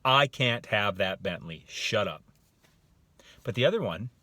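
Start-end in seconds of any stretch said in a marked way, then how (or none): 0.0-2.2 loud, slow, dismissive verdict; closed-minded refusal. Acted. Coach voicing someone who won't listen, dismissive. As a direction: cut off any argument. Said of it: "You're saying".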